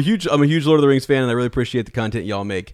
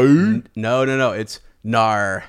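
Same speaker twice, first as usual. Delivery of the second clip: put-on Australian accent; 3 dB louder, much slower than usual. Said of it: "her accent is so awesome".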